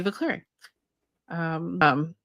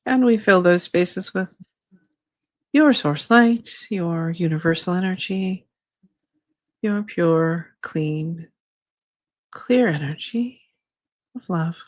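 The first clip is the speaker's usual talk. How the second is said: slow, calm channeling voice; channeled spirit guide; slower than usual. Acted. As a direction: speak as a gentle guide spirit. Channels her guide Shay.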